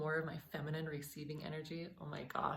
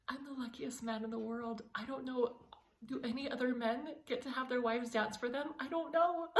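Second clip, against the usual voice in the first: laughing husband quote; 8 semitones higher than usual. Retold or imitated. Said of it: "he will just look at me and say".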